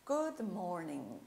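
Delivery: "Good morning" slowly, the g of "morning" left unsounded; silent final G. Shown as a demonstration. Teacher repeats the greeting for students, silent G in "morning". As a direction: end "morning" on n, with no hard g. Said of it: "o G eu não pronunciei".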